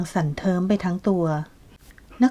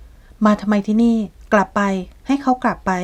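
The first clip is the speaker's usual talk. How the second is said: agitated order; 3 semitones higher, 4 dB louder than usual. Acted. Sick Kasma orders him out.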